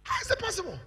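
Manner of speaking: high-pitched, falling sharply at the end; high rhetorical challenge to the congregation; incredulous question. Real, not acted. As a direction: ask it high, in disbelief.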